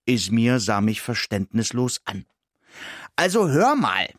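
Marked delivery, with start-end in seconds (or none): 3.2-4.1 high, squeaky outrage; a mouse snapping back, offended; indignant mouse. Acted. The mouse protesting to Ismir, high and worked up. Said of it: "sagte ich aufgebracht".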